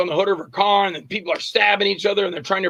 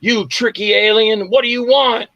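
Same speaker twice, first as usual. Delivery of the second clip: frightened human; 4 semitones higher, 4 dB louder than usual. Acted. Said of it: "I'll do myself talking to myself as the human".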